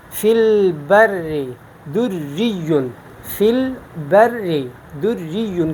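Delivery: البر with a light, held double R; thin doubled ra. Shown as a demonstration. Teacher showing shadda with zer, thin ra. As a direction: draw out البر slowly, ra kept thin. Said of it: "ہم اس کو باریک پڑھیں گے".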